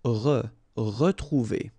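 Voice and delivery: "Re, retrouver": the first syllable "Re" split off, then the whole word ruh-troo-VAY; slow syllable model. Shown as a demonstration. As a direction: slowly stress the "Re" before the word. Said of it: "it's really pronounced like e".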